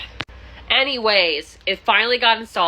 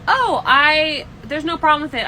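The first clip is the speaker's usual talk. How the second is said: mock tenant voice; 8 semitones higher, 4 dB louder than usual. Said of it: "she goes".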